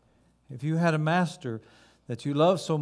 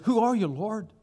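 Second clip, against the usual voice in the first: yelling up; 6 semitones higher than usual. Acted. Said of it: "he yells up into the light".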